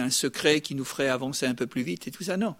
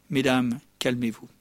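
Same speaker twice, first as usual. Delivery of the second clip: lower-pitched, settling aside; mock calming; 4 semitones lower than usual. Preacher to the women in the audience, playfully calming. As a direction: bring the ladies back down.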